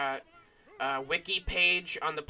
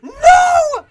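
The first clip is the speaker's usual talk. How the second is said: shout; 20 dB louder than usual. Real, not acted. Shouting at game.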